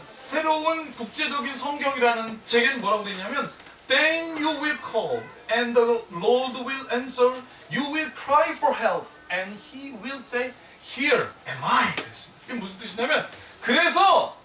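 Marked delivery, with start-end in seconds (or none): 3.9-12.0 very slow, deliberate verse reading; scripture reading. Acted. Preacher reading the English Bible to the congregation, very slow. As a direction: read each word of the verse slowly.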